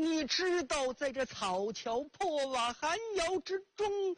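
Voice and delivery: put-on high-pitched, pleading inner voice of a grieving old mother; mother's silent lament. Blind mother in a cold kiln longing for her emperor son, high aching lament. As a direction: ache for the son you may never see, voice lifted high. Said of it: "心里在叨叨念念".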